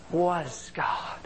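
breathy whispered close of the verse. Retold or imitated. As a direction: let the last words fall to a whisper. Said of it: "the Lord spoke to me and He said".

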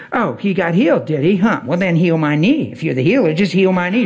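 imitated sarcastic challenge; mock a skeptical lady daring the healer; mildly snide retold jab. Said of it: "She's real sarcastic".

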